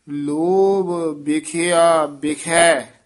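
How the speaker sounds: slow, hold the phrase ਲੋਭ ਬਿਖਿਆ ਬਿਖੈ with a short halt after it; slight hold. Shown as a demonstration. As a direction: say ਲੋਭ ਬਿਖਿਆ ਬਿਖੈ slowly and stop briefly before ਲਾਗੇ. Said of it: "ਇੱਥੇ ਠਮਕ ਲਾ ਕੇ".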